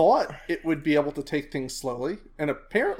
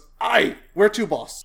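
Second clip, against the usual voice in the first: orc captain voice, higher; 6 semitones higher, 6 dB louder than usual. Game master voices the orc freeboat captain over the radio: orc captain voice. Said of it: "the first orc freeboat captain of the rammer".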